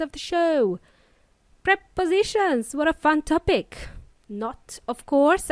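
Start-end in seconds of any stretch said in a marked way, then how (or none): 1.6-3.9 higher-pitched mock enthusiasm; sarcastic. Real, not acted. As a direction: feign delight at a dull topic, sarcastically. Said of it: "I'm being sarcastic".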